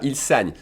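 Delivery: "saigne" with an open eh; accent grave demonstration. Shown as a demonstration. Teacher showing third person plural, open accent grave sound. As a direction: open the vowel of "saigne" wide to è. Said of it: "il saigne with an I accent grave sound".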